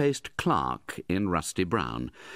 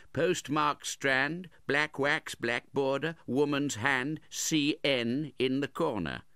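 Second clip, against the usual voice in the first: Noggs's voice; 7 semitones higher, slower than usual. A narrator's reading. Noggs reads out the envelope.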